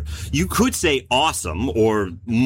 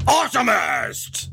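drawn-out booming announcer cry, slower; monster truck announcer; 6 semitones higher, slower than usual. Acted. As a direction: belt it like a stadium hype man. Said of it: "I can't stop saying it like that".

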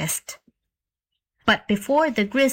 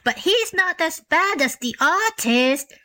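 higher, eager donkey outburst; exclaiming donkey; 8 semitones higher than usual. A narrator's reading. Donkey complaining about the artist, eager exclamation. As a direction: blurt it out indignantly. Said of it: "exclaimed the donkey".

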